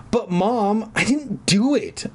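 high-pitched protest; acted high whiny denial; shrill insistence. A narrator's reading. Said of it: "I insisted shrilly".

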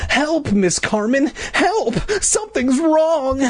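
very high, slow mouse squeaks; tiny squeaky voice. Acted. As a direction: call for help in a little mouse squeak. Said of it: "all tiny and squeaky, little mouse squeaks".

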